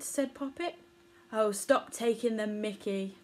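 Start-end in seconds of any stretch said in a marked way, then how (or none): 1.3-3.1 a hint of huffiness, barely voiced; a millipede mildly put out by teasing; lightly huffy millipede. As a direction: read it with a touch of a sulk. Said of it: "said the millipede huffily".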